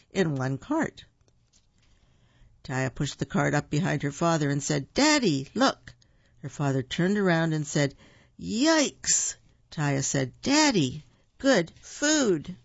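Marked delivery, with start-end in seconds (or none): 4.9-5.9 high-pitched eager little call; excited child. A narrator's reading. Taya showing her father the loaded cart, excited child. 8.4-9.3 high, swooping cry of alarm; startled yelp. A narrator's reading. Father seeing the pile of chocolate, startled yelp. 10.4-12.5 put-on high little-kid voice, pleased with the find; eager child. A narrator's reading. Taya showing Daddy the candy, eager child.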